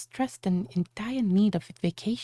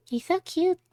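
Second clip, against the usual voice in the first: gushing; 10 semitones higher than usual. Acted. Admiring jungle trees.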